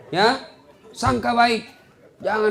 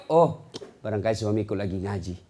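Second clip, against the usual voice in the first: calm, low trusting voice; trusting wife; 6 semitones lower than usual. Acted. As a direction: assume the best, calmly. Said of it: "sangka baik".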